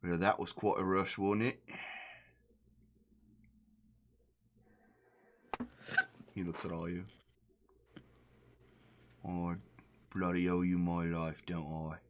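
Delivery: lightly put-on Australian-ish captain; relieved pirate captain, mild accent; captain's accent. The captain thanks the party in a light put-on accent.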